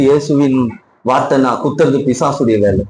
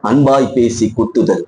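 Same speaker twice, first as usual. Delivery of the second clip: slow definition; 4 semitones lower than usual. Shown as a demonstration. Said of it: "Avila என்றால் என்ன?".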